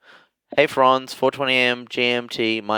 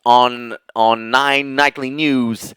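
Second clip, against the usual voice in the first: slow Australian newsreader delivery; measured nightly news voice; Hugh Remington; much slower than usual. Shown as a demonstration. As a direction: read it like a TV news anchor. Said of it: "you could do Hugh Remington".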